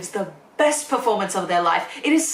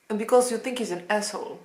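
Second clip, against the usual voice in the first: attempted Russian accent; 4 dB quieter, faster than usual. Shown as a demonstration. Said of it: "please roast my accent in the comments".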